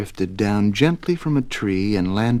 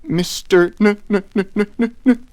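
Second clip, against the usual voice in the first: stuttering higher and louder until the name bursts out; nervous stammer; 8 semitones higher, 9 dB louder than usual. A narrator's reading. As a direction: get stuck on the N in fright. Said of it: "stammered Mister Nervous".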